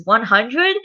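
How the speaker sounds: surprised question. Acted. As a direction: ask it in mild disbelief. Daddy reacts to huge demand.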